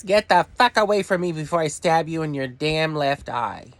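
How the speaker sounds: a touch of a furious snap back; mock angry retort. Vlogger retorting to an imagined helper, mock anger.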